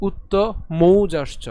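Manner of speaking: মৌজাশ্চ with a clear au diphthong; careful correct pronunciation. Shown as a demonstration. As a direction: punch the mou in মৌজাশ্চ. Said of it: "আমরা আবার উচ্চারণ করছি".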